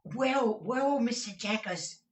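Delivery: high, stuffy voice of a man with a cold; hesitant client with a heavy cold. A narrator's reading. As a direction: sniffle it out. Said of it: "in the voice of a sufferer from a constitutional cold".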